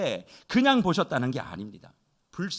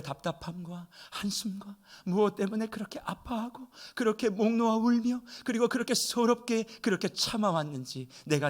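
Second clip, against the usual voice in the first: tender comfort; 3 dB quieter than usual. Acted. Voicing Jesus comforting the widow.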